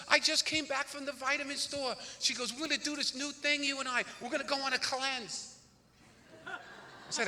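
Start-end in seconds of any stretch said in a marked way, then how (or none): 0.1-5.5 wife voice. Retold or imitated.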